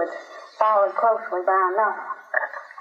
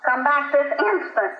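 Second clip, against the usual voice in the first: mildly shrill mother calling someone back; 6 semitones higher than usual. A narrator's reading. Mother ordering her son back, lightly shrilled. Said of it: "his mother shrilled".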